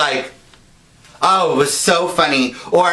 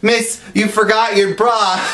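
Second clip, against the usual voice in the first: prankster lightly calling out, higher pitch; calling after someone; 5 semitones higher than usual. Retold or imitated. Prankster to a woman walking away, mock-helpful call.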